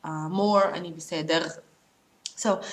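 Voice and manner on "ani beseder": "beseder" with a throaty final r; guttural R. Shown as a demonstration. Teacher showing what you would hear more, guttural R. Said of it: "but you would hear, uh, more".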